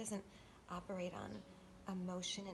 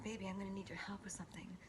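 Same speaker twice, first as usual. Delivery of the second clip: whisper; faster than usual. Retold or imitated. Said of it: "And he said".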